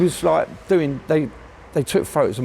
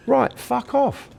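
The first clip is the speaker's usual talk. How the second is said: mock copper dismissal; 11 semitones higher, much slower than usual. Cop dismissing him.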